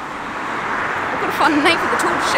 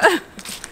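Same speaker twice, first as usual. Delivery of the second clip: short chuckle in a put-on Australian accent; Australian laugh. Girlfriend showing off her laugh in an Australian accent. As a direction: laugh like an Aussie would. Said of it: "do you hear that? I even laughed Australian".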